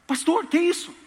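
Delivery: high, loud shocked outcry; shocked question. Retold or imitated. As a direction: ask it aghast. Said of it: "Pastor, não vou falar". (pergunta chocada, aguda e alta)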